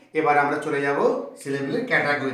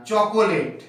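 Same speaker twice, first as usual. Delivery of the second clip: slow demo word; 4 semitones higher, 4 dB louder, much slower than usual. Shown as a demonstration. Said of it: "অনেক আছে এরকম".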